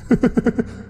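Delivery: high eerie ghost giggle; a drowned ghost's creepy laugh; ghostly laugh. A narrator's reading. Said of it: "một giọng nói ma mị". (tiếng cười ma mị the thé)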